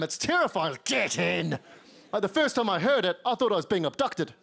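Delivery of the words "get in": low, venomous hiss. Shown as a demonstration. British man at a barbecue, low and venomous. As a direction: threaten with it. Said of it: "dripping with venom".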